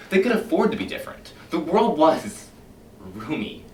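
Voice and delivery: a smooth, menacing captain talking his men round; silky, sinister fire captain addressing his firemen; Captain Beatty lecturing. Acted.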